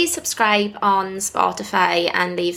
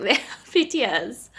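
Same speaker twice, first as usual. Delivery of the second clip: slower, with a tearful laugh; laughing through tears. Real, not acted. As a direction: reassure through a laugh while still crying.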